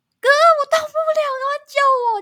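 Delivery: shrill, very high, full-volume shout. Recalling suddenly being unable to move, the speaker reenacts calling to their brother: retelling a shout for help. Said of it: "我就大叫我说".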